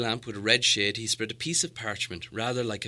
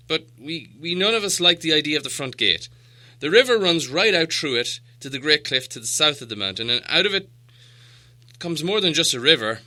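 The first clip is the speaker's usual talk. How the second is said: louder, grim dwarf king; grim dwarf lord; 4 semitones higher, 8 dB louder than usual. Acted. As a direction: warn of the dragon at the gate. Thorin describes the dragon gate.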